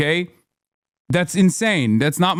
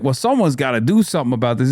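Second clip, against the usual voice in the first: quick, lower, dismissive mock of a powerless politician; fast, lower sarcastic parody; mocking whine; 4 semitones lower, faster than usual. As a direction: rattle it off like a helpless excuse. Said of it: "they're always doing like".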